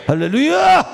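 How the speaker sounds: high, loud exultant cry; ringing praise shout to the congregation; shouted hallelujah. Real, not acted. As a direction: call out hallelujah to lift the room. Preacher's exultant call.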